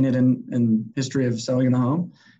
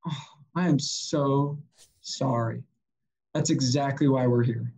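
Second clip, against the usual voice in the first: slow, lowered condolence, softening on the apology; hushed mock-sincere sorry; played empathy; 2 semitones lower than usual. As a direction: act out solemn sympathy, laid on deliberately. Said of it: "I just played the empathy".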